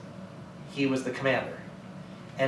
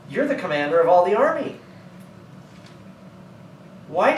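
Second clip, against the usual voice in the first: scolding, pitched higher and higher; reprimanding; 4 semitones higher than usual. Retold or imitated. David scolds Abner from the hill, a high rebuke. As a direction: tear into him for failing the king. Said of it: "he starts reprimanding Abner".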